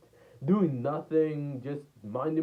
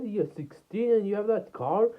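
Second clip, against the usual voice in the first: high-pitched mock disbelief; imitated astonished girl; 9 semitones higher than usual. Girl learning the car owner's age, high imitated disbelief. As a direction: question it in a put-on high voice. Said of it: "She said".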